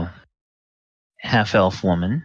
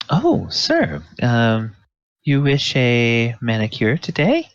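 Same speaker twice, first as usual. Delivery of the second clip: higher, courteous spa attendant voice; polite moon elf attendant; 5 semitones higher than usual. Acted. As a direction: greet the new guest sweetly. Moon elf greets customer.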